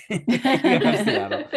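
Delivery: high, slow, laughing echo; laughing repeat. Real, not acted. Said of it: "repeats the friend's line, laughing".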